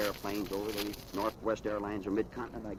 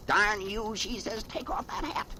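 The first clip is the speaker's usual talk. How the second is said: scolding Gravel Gertie; 9 semitones higher, slower than usual. Acted. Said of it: "She says to B O Plenty".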